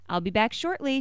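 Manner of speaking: a touch of syrupy sweetness; sweetly. Acted. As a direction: sweet-talk the child on the way out. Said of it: "she said to me sweetly".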